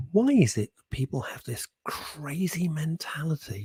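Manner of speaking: a hushed, disbelieving aside; baffled whisper. Real, not acted. Host puzzling over panic buyers, whispered.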